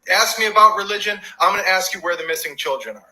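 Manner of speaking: insistent rally cry. Real, not acted. Rallying chant on missing children.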